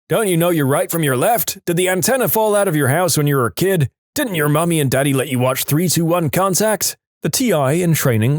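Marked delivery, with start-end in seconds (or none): 0.1-7.0 retold screaming. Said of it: "the T I started screaming".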